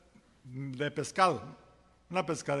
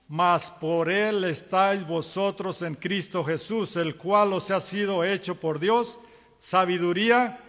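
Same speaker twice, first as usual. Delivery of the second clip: scripture reading; 4 dB louder than usual. Acted. Preacher reading Corinthians aloud to the church, solemn and proclaiming. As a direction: proclaim the verse to the congregation.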